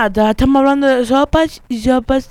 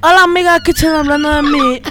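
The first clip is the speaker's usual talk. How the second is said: laughing greeting; 5 semitones higher than usual. Acted. Girl barges into friends' gossip.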